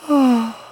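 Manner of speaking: high, loud falling yawn; big yawn. A narrator's reading. Rainbow getting sleepy on the hay, big yawn. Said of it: "she gave off a big yawn".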